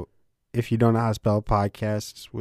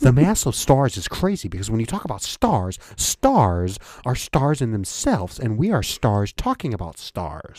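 speeding-up cosmic lecture; a touch of awed science host; Neil deGrasse Tyson. Retold or imitated. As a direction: gather pace as the idea excites you. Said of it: "he starts talking a little faster".

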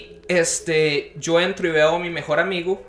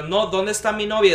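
protesting demand; 6 semitones higher, 4 dB louder than usual. Retold or imitated. He protests, demanding his girlfriend.

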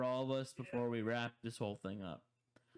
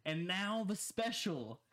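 show introduction; 3 semitones higher, slower than usual. Retold or imitated. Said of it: "it all leads up to us saying".

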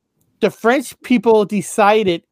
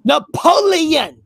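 drawn-out Napoleon; 7 semitones higher, slower than usual. Shown as a demonstration. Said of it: "Here we go".

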